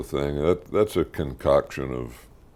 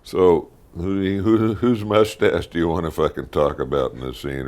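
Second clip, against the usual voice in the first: mock casting question; 3 semitones higher, 5 dB louder than usual. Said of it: "it probably boiled down to".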